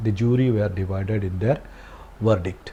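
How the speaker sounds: very slow, word by word; slow dictation. Shown as a demonstration. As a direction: read it out slowly for the class to write. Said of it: "plural ആയിട്ടുള്ള വെർബാണ്". (വളരെ പതുക്കെ, വാക്കോരോന്നായി)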